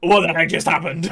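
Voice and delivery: retold shock. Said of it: "was just like".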